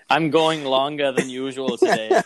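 Schwarzenegger impression. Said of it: "shitty Schwarzenegger impressions".

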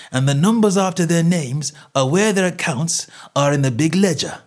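walk the customer through your proof; cocksure stallholder. Acted. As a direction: seller gloating, point by point. Salesman shows his proof.

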